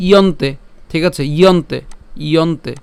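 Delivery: ইয়ন্তে opened with "iyo"; y-glide sound. Shown as a demonstration. Teacher drills the second half, ইয়ন্তে with clear y-glide. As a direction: begin ইয়ন্তে as "i-yon-te". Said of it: "জফর উচ্চারণ যেহেতু ইয়র মতো হয়".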